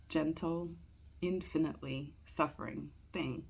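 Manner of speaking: measured verse reading with pauses between lines; poetry reading. Acted. Amateur reading Eliot's Preludes to listeners, measured poetry reading. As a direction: read each line out deliberately, then pause. Reads a poem aloud.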